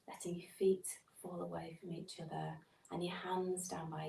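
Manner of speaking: soft, unhurried body-scan voice with long pauses; guided meditation. Acted. Meditation teacher settling listeners lying down for a body scan, guided meditation. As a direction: gently settle listeners, leaving space between phrases.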